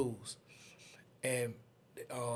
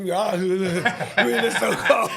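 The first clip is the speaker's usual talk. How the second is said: slow, louder, through a laugh; laughing about the cold; 4 semitones higher, 8 dB louder, much slower than usual. Retold or imitated. Recalling the freezing Jeep ride, laughing. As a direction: laugh out how cold it was. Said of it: "It's shaking cold".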